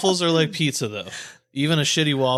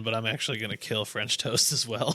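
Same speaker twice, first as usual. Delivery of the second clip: laughing; 4 semitones lower, 7 dB quieter than usual. Real, not acted. Admitting he's on Alan's side.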